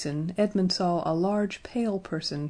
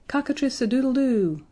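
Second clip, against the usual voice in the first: crowed out loud and high; loud clear crow; 6 semitones higher, 4 dB louder than usual. A narrator's reading. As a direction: crow it like a proud rooster. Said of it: "very loudly and clearly".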